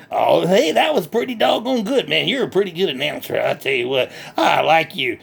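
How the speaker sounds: lightly voiced country hick, cheerful and boastful; redneck Bubba. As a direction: play a proud backwoods redneck bragging. Bubba praises host.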